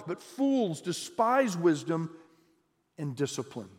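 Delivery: steady, measured reading of scripture. Acted. Pastor reading Proverbs to the church, measured reading voice. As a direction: read the verses to the congregation evenly. Reads Proverbs passage aloud.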